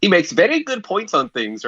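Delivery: bad German accent sounding Middle Eastern; muddled German accent. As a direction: miss German and land near Middle Eastern. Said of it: "Middle Eastern there, I think".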